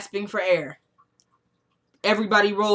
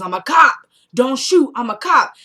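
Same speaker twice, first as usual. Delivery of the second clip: mock shouting cop; 4 semitones higher, 6 dB louder than usual. Cop yelling in shootout.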